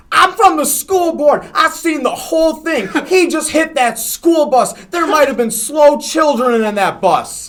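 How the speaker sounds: high, loud school board witness voice; movie-style busybody lady. Retold or imitated. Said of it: "like, out of a fucking movie".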